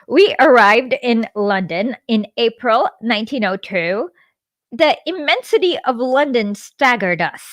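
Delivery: measured book narration voice; memoir read-aloud. A narrator's reading.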